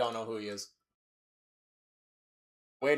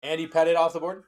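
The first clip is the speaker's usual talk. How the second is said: announcer voice; faster than usual. Pretend. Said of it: "The way you said that, though?".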